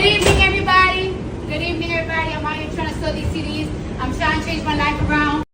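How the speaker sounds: a hint of a subway hustler's sales pitch; subway seller pitch. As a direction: lightly put on, pleading to passengers. Playing a subway album seller.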